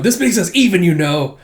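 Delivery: put-on haughty boy voice. Retold manga, Damien boasting.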